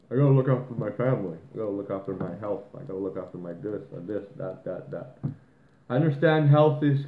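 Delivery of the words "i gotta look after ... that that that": rattled off fast, mocking people's excuses; mocking whiny excuse. Mocking the self-centered maskers, fast sing-song excuse. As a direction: parrot the same excuse quickly with a sneer. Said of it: "everyone's saying that".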